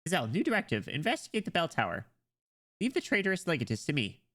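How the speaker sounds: lightly acted commander; commanding character. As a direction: issue a directive in character. Voices character giving orders.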